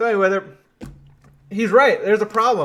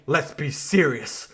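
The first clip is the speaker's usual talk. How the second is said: mock French accent; 3 semitones lower, slower than usual. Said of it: "respond with a straight face".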